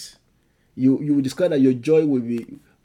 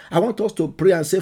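normal talking voice

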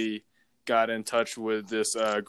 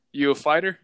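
louder, higher question in mock Russian accent; 4 semitones higher, 5 dB louder than usual. Driver sizing up his passenger, Russian accent. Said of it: "it's a Russian accent".

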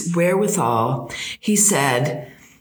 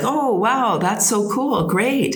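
higher, lilting retold amazement; impressed reaction; 5 semitones higher, slower than usual. Traveler replying to a man moving to Canada, impressed. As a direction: act out an eager, impressed listener.

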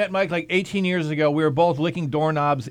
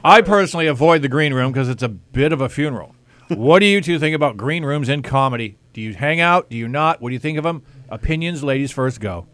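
Tom Brokaw; 3 semitones lower, 4 dB louder than usual. Acted. Comic interviewing comedians about green rooms, mock broadcaster voice. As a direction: lower broadcasting voice. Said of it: "my Tom Brokaw broadcasting voice".

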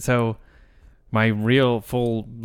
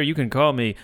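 weird name impression; 2 semitones lower, 3 dB quieter, slower than usual. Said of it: "do a different voice every time".

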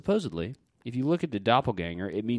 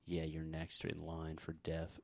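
slow, much softer ghostly warning; 6 semitones lower, 18 dB quieter, slower than usual. Retold or imitated. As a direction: breathe it out slowly like a ghost. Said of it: "it was saying".

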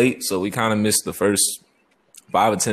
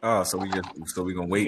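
tin can phone; 4 semitones lower, 4 dB quieter, faster than usual. Real, not acted. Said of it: "This nigga speaking through a tin can right now".

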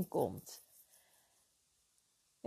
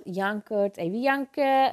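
imitating mild mockery of a crybaby; spottend nagedaan; 4 dB louder than usual. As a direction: tease the crybaby, slightly louder at the end. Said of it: "mij is toen verteld". (spottend nagedaan gejen)

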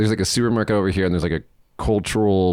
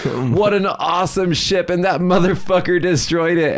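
high-pitched imitation of outraged yelling; hammed-up cry of outrage, high but not full volume; mock scream; 9 semitones higher than usual. Friend mourns the destroyed ship to old men, mock scream. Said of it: "He starts screaming at the top of his lungs".

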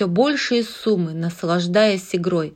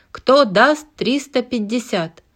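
auctioneer; 4 semitones higher, 4 dB louder than usual. Acted. Auctioneer calling bids.

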